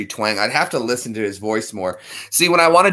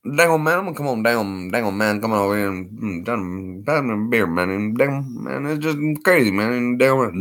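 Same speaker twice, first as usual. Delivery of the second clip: Boomhauer impression. Doing King of the Hill voices, mumbled rapid Boomhauer chatter. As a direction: rattle through the words, slurred together. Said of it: "damn it, Boomhauer".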